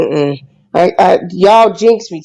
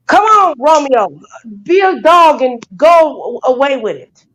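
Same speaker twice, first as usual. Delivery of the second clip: slow, raised call to the dog, pleading; 3 semitones higher, slower than usual. Real, not acted. Owner urging dog out.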